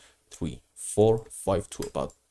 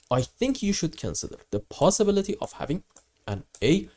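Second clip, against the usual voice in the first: rough, strained voice from a bad cold; voice hoarse from cold. Real, not acted. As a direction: talk through a sore, hoarse throat. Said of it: "apologize for my terrible voice".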